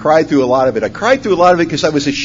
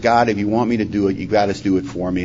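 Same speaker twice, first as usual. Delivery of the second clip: low, soft plea to God; retold quick prayer; 6 semitones lower, 6 dB quieter than usual. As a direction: pray it quietly, voice dropped. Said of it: "I said a quick prayer".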